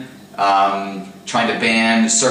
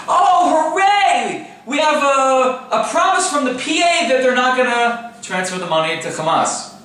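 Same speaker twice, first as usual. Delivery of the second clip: sarcastic; 11 semitones higher than usual. Acted. Mocking a finance ministry claim.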